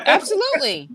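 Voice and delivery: agreeing through a real laugh. Real, not acted. Laughing as she agrees with her co-host. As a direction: laugh your way through the word.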